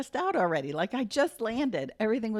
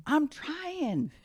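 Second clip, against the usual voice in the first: mock dad; 8 semitones higher than usual. Dad quoted at locked car.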